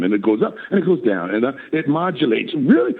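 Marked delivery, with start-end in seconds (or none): 2.6-2.9 mock surprise. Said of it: "voicing an amazed student".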